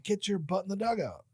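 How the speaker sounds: high-pitched imitation of a cross coach; retold coach's sharp command; stern coach. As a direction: order a player off, without shouting. Coach's angry order, retold.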